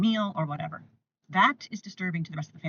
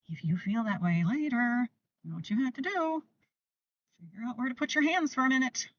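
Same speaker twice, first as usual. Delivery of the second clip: put-on higher, sing-song voice for a small child; gentle child-directed voice; 5 semitones higher than usual. Shown as a demonstration. Parent coaching an older toddler, higher sing-song voice. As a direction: talk up to the kid, light and encouraging. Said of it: "then you can say".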